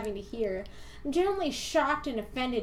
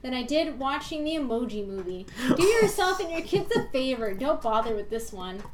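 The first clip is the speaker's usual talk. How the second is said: mock outraged reviewer. Reading a scathing review aloud.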